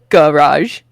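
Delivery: "garage" with a clear "gah" at the start; careful "garage", open first vowel; A sound at beginning. Retold or imitated. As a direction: say "garage" as gah-razh, hard G. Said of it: "with the hard G and the, the A sound".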